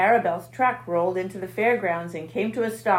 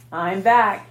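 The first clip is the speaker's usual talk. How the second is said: husky; 8 dB louder than usual. A narrator's reading. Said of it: "he said in a husky voice".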